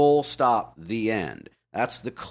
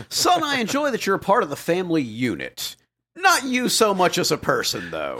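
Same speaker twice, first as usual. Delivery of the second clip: mock father; 4 semitones higher than usual. Mocking the father in the parable.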